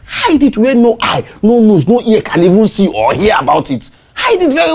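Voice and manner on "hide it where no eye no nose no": laughing. Acted. Laughs while scheming with Mark.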